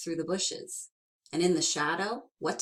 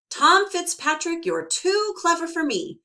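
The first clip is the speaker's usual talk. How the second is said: defeated leprechaun; 12 semitones higher, 8 dB louder than usual. Acted. Leprechaun gives in.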